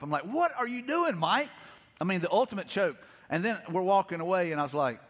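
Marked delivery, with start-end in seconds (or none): 0.2-1.5 mock-angry yell at myself over a missed shot; furious at myself. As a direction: scold yourself after choking the shot. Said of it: "I had fury come up".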